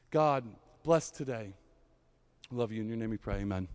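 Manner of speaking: earnest spoken prayer, softening to the amen. Acted. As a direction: pray over the room, then fade gently. Pastor leads the congregation in prayer.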